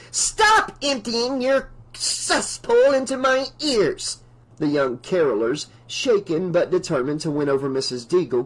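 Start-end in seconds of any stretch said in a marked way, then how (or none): 0.1-4.2 angry. Acted. Deagle berates carolers.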